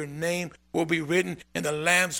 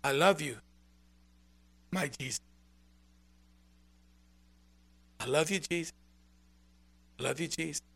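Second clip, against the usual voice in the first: much softer, tender I love you Jesus; hushed, devoted prayer; adoring whisper-soft prayer; 7 dB quieter, faster than usual. Retold or imitated. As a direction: pour adoration into each word. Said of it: "a shift that I didn't make happen".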